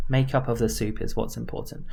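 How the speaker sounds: ordinary talk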